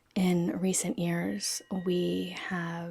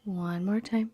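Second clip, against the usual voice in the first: soft, unhurried yoga nidra guidance; calm relaxation-practice voice, settling softer as it goes; guided meditation; 3 dB quieter than usual. Real, not acted. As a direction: gently lead them into stillness, pausing between phrases.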